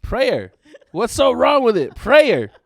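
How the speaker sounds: loud, high-pitched protest; worked-up, comic exasperation; exasperated insistence. Real, not acted. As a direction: demand what's wrong with your pronunciation. Defends own pronunciation when corrected.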